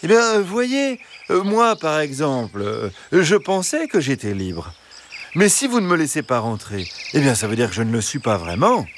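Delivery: lightly voiced wheedling fox; a hint of a sly fox making his case; pleading fox. Fox arguing with the hens to be let in, wheedling.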